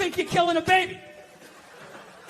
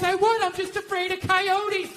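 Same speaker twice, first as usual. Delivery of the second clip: imitating wife; 3 semitones higher than usual. Wife explaining why she skips the trash, mock innocent. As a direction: play the wife making a lame excuse. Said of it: "She goes".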